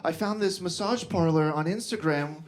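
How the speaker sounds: gushing tourist, rising high and slowing; mock-sweet enthusiasm, stretched out at the end; lady from Wisconsin. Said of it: "this lady from Wisconsin was like".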